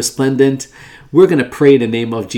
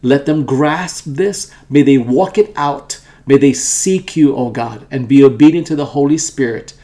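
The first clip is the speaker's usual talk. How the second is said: earnest, pleading prayer voice, swelling in places; fervent prayer. Acted. Pastor praying over listeners and viewers, fervent prayer. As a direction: pray it out, calling on God.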